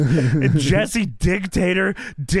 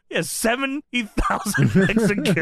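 laughing; 3 semitones higher than usual. Real, not acted. Laughing while speaking.

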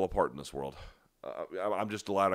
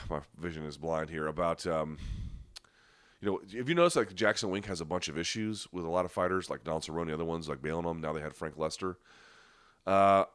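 normal talking voice

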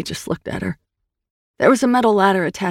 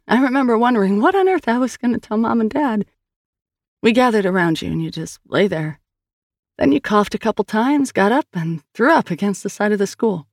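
higher, earnest sister voice; Sal's voice; 5 semitones higher than usual. Acted. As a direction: tell it gently, coaxing a memory. Narrator voices Sal.

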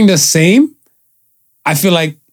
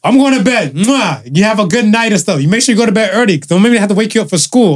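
lightly voiced mom, a little higher; a hint of a motherly bedtime voice; 5 semitones higher than usual. Voicing mom in story.

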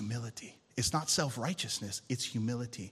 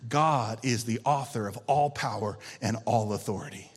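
louder repeat; 3 semitones lower than usual. Shown as a demonstration. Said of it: "I'm gonna say that again".

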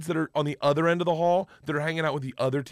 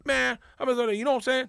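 higher-pitched mock African American English; imitated Black American speaker; 10 semitones higher than usual. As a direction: do a playful Black American accent impression. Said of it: "It's a black guy saying".

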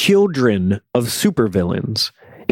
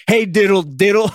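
laughing singsong; 7 semitones higher than usual. Pretend. Mocking Luke's freak out.

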